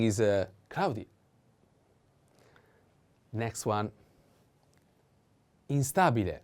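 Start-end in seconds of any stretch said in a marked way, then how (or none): 5.7-6.4 "Instabile" with STA punched; stress on A. Shown as a demonstration. Teacher introduces the next adjective, "Instabile" stressed on STA. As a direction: lean on the a of "Instabile". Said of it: "The accent is on".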